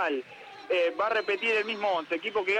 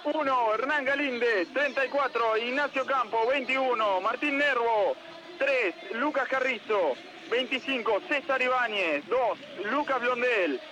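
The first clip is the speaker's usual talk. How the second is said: measured, slightly raised formal roll call; lineup announcer; 3 semitones higher than usual. Acted. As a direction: read out the eleven like a stadium announcer. (locutor leyendo la formación de Argentinos)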